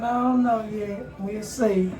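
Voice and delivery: high, slow cutesy pet voice; puppy voice. Pretend. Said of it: "Me and my puppy said".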